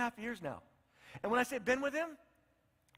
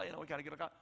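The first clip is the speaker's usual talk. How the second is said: embarrassed mumble; 5 semitones lower, 6 dB quieter than usual. Retold or imitated. Embarrassed Christians voiced mumbling.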